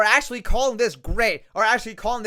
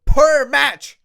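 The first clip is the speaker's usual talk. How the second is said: ordinary talk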